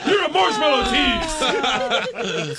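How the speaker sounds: high, loud, drawn-out comic accusation; mock accusing yell. Bear accusing the man of teasing, mock outrage.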